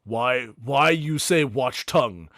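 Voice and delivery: a hulking orc sizing them up; big orc Mountain. Acted.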